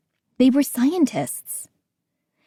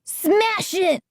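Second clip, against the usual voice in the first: urgent plea; 9 semitones higher, slower than usual. A narrator's reading. Gates begging to smash robot.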